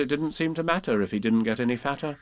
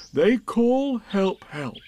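much interested; 7 semitones higher, slower than usual. A narrator's reading. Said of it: "much interested".

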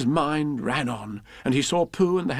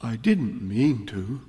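sorrowfully; slower than usual. Acted. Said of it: "said Pooh sorrowfully".

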